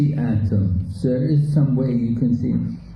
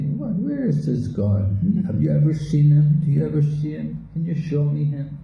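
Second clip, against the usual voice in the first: lightly acted, higher-pitched challenge; challenging skeptic; 4 semitones higher than usual. Teacher voices doubters questioning God, a higher-pitched challenge. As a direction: press with incredulous questions, pitched up. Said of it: "they'll say".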